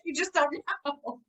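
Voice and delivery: high, sassy laughing retort. Pretend. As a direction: toss it off with sass.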